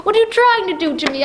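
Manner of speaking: hysterical pleading. Acted. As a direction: fling it at the caller, at the end of her nerves. Terrified woman berates mystery caller.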